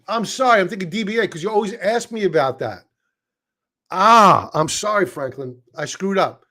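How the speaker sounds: flustered apology. Real, not acted. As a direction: catch your own mistake and apologize. Realizes mistake, apologizes to viewer.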